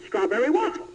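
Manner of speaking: a light, excitable game-host voice; Regis Philbin impression. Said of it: "as Regis Philbin".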